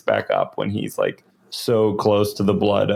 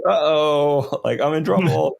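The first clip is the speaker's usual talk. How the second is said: higher-pitched comic uh-oh; mock dread; 6 semitones higher than usual. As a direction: play a courtier realizing he's in trouble. Acting out Gourmain's dread at bath.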